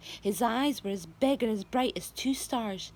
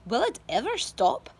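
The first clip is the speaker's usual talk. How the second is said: louder, excited call; Aunt Sponge shouting; 5 dB louder than usual. A narrator's reading. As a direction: call it out eagerly. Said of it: "Aunt Sponge shouted".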